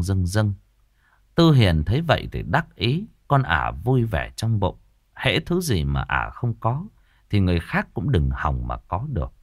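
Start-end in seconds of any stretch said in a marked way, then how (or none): none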